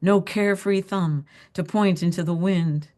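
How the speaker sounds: deliberate poem reading with pauses between phrases; poetry reading. A narrator's reading. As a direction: let each image land before moving on. Author reads her poem aloud.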